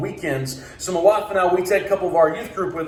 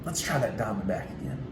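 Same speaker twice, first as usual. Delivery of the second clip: mustered courage; 6 semitones lower, 11 dB quieter than usual. Retold or imitated. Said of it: "musters up this courage and says".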